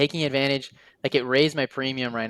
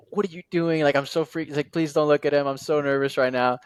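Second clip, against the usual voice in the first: mimicking panicked friend; 3 semitones higher, 3 dB louder than usual. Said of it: "my friend was freaking out".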